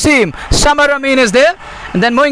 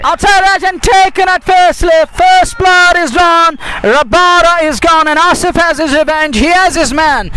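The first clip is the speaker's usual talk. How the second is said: excited wicket call; 5 semitones higher than usual. Real, not acted.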